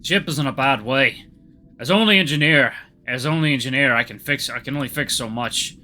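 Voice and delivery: put-on light Norwegian accent, broken English; a hint of a Norwegian engineer. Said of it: "I think he's Norwegian?".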